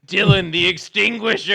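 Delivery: mock announcer.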